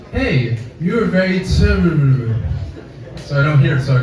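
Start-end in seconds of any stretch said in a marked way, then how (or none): 0.1-2.4 imitated farm woman. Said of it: "what I heard her say was".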